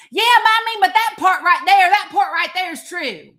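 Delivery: high, loud mock protest; mocking critics. Imitating critics excusing Trump's numbers, high and mocking. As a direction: ham up the doubter's backpedal. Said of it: "And they'll say".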